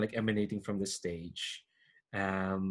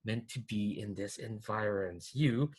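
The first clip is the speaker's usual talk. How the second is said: silky threatening voice; 5 dB quieter, slower than usual. Acted. Noble taunting the would-be knight, slow silky menace. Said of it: "silky, threatening voice".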